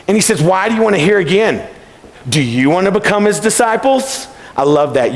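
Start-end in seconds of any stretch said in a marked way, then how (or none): 0.4-4.3 mild sarcastic jab at the Pharisees; a retold, understated mocking question; dripping sarcasm. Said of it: "that drips with sarcasm".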